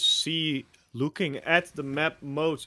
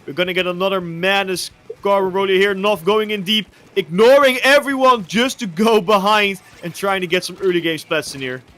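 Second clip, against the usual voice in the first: louder esports casting; live play-by-play; 5 semitones higher, 8 dB louder than usual. Real, not acted. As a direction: call the early action with energy.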